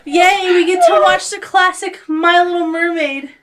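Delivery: put-on high, loud childlike cheer; gleeful, high-pitched cheering; little yay. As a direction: celebrate like an excited kid. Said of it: "her little yay".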